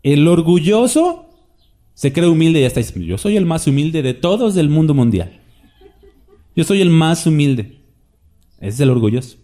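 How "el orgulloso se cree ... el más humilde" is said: smug boast. Retold or imitated. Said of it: "una frase muy buena por ahí que dice".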